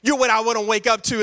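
low, lightly voiced romancer sweet-talking his wife; smooth-talking Abram. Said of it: "I don't know why he talks like this".

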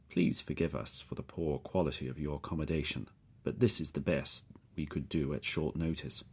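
put-on every syllable spoken with care, Slavic accent; a courteous captor enunciating in a Slavic accent; precise Slavic accent. Captor apologising to the prisoner, precise Slavic accent. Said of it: "His words are pronounced very precisely".

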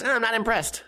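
a hint of a snooty girlfriend; mimicking unimpressed girlfriend. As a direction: sniff at it like she's above it. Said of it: "she goes".

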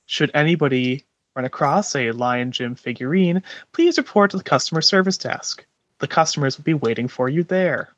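walkie-talkie page. Acted. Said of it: "use one of the earpieces to call out".

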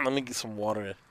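low, soft Boston accent; Boston accent, quietly asking for a drink. Shown as a demonstration. Showing off the speaker's Boston persona on request, in a Boston accent. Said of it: a request to hear the speaker's Boston persona.

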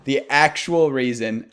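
cracking up mid-phrase; laughing restart. Real, not acted.

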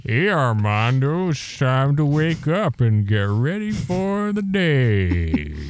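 slow, sing-song wake-up voice; mock alarm ringtone. Co-host pretending to be a wake-up ringtone, slow and sing-song. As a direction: coo it like a gentle alarm clock.

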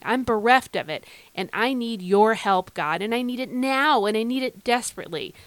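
sincere, pleading personal prayer; earnest prayer. Shown as a demonstration. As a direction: pray it as an urgent appeal to God. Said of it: "the way that I've been praying".

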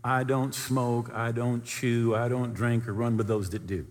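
slow, sing-song recital of the rule; mocking old saying. Preacher mocking people who list their good works. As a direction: recite it like a pious checklist. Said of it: "heard that saying".

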